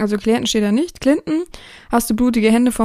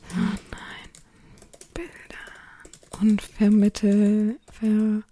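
whispering while typing; much slower than usual. Real, not acted. Dictating own message while typing.

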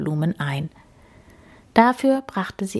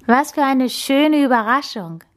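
high, delighted exclamation; thrilled and appreciative; enthusiastic; 7 semitones higher than usual. A narrator's reading. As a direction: gush with pleasure in a raised pitch. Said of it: "sagte sie begeistert".

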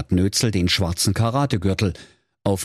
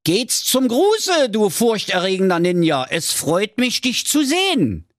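polite little hero; 13 semitones higher than usual. Acted. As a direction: greet him with exaggerated politeness. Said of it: "sprach zu der Gestalt".

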